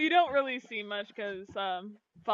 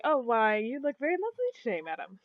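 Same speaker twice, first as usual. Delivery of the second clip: smooth prince voice; 3 dB quieter than usual. Acted. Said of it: "says, like".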